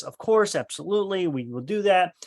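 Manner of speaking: imitated ready assent; retold eager agreement. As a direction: agree readily, imitating the mother.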